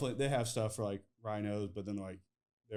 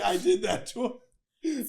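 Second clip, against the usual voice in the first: higher, louder put-on dismay; mock guilty friend; 13 semitones higher, 7 dB louder than usual. Quoting Boyan's guilt at the farm, higher mock dismay.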